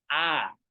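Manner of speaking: "Ah" fuerte y abierta, junto al oído; vocal A en voz fuerte. Shown as a demonstration. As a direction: modela "Ah" fuerte al oído del alumno. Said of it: "con voz fuerte". ("Ah" clara y fuerte de demostración)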